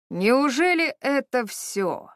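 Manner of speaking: slow, mocking sneer; sarcastic sneer. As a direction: jeer at her, drawn out. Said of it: "язвительно усмехнулся соперник".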